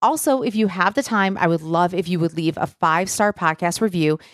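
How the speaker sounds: measured, scripted sign-off with steady pace; podcast outro read. Real, not acted. Host thanks listeners and asks for reviews, scripted outro read. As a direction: read the closing request evenly to listeners.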